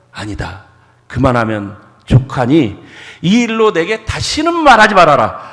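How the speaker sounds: God firmly ending the plea; firm refusal. Retold or imitated. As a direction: shut the request down for good. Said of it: "하나님께서 단호하게 얘기를 합니다".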